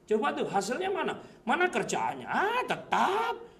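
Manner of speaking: taunting, swooping questions; mocking onlookers. Sceptics watching a churchgoer for results, mocking taunts. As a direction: jeer with pitch leaping up on key words. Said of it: "pernah dengar kata-kata seperti itu".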